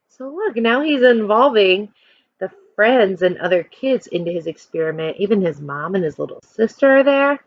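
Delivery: plain reading voice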